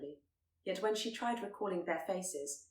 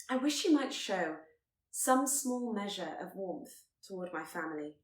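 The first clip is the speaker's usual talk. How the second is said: earnest plea; 3 dB louder than usual. Acted. Elizabeth pleading with Darcy.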